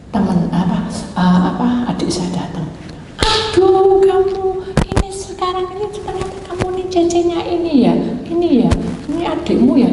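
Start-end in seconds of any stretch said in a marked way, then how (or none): 3.2-9.9 high, singsong greeting; imitated teacher's effusive singsong; gushing teacher. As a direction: coo over a pupil's sibling in a high lilt.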